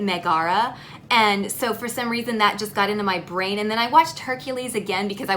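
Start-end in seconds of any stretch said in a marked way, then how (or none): 0.0-0.8 Megara stressed on the middle syllable; common mispronunciation. Retold or imitated. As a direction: say Megara as meh-GAR-a. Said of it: "a lot of people pronounce it".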